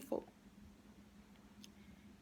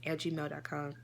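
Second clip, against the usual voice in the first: slow dictation; 5 semitones lower, slower than usual. Shown as a demonstration. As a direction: dictate it slowly so they can write it down. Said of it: "Um, again".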